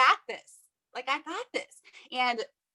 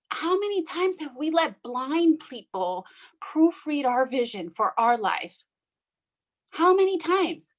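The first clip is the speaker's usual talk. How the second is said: getting emotional; 3 semitones higher, slower than usual. Real, not acted. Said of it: "I'm gonna get emotional".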